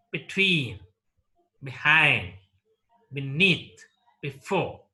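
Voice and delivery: each of between, behind, beneath, before stressed on its last syllable; second-syllable stress. Shown as a demonstration. Teacher repeating example prepositions, second syllable stressed. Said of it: "take the stress on the second syllable".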